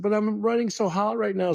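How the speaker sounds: high-pitched, chirpy mock friend voice; imitating Marcia. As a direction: pitch way up, playing her carefree excuse. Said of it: "And she said".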